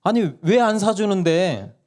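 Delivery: 높고 느리게 따져 묻는 아이; 억울해서 캐묻는 막내처럼; 따지는 아이 흉내. Retold or imitated. 막내가 따짐. (엄마에게 따지는 막내 목소리)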